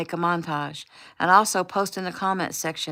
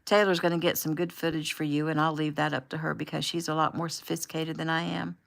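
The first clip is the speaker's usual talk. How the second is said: upbeat livestream host; 4 dB louder than usual. Acted. The host live on camera greeting followers.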